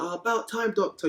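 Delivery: put-on high, lofty know-it-all baby; posh newborn voice. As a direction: act like a smug newborn. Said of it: "You came out, you were like".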